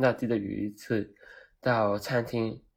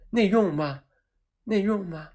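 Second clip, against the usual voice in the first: impatient repeat; 8 semitones higher than usual. Retold or imitated.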